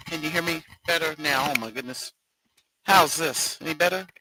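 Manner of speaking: distorted robotic mic sound; robot voice from a glitching mic. Real, not acted. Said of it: "You sound like a robot".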